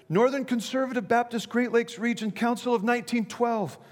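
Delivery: high, hammed-up yell of the name; mock yelled answer. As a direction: yell the whole title back like a joke. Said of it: "he yelled back".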